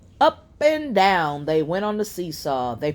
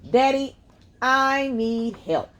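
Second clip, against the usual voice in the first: high call to daddy, slowing on need help; 8 semitones higher than usual. A narrator's reading. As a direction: call across the playground for daddy. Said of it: "called out Kim".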